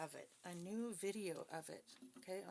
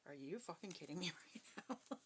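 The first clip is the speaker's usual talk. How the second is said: incredulous laughing. Retold or imitated. Retells own incredulous reply, laughing.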